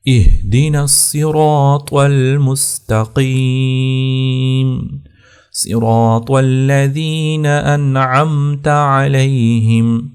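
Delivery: slow melodic tilawat; slow, chanted Quran recitation. Acted. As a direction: recite slowly with drawn-out vowels.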